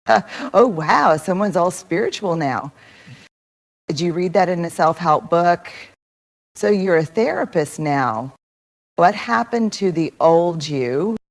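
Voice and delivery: lightly mocking, with an exaggerated "oh, wow"; subtle sarcasm. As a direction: voice a snide friend's dig, understated. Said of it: "you get subtle sarcasm".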